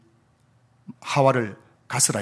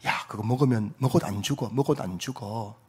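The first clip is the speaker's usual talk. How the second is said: softly voiced serpent, tempting Eve; imitating coaxing whisper; 3 semitones lower, 6 dB quieter than usual. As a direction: murmur it softly as if into Eve's ear, without truly whispering. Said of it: "하와의 귀에 대고 속삭이는 겁니다". (귀에 대고 속삭이듯 나직하게 꾀는 말투)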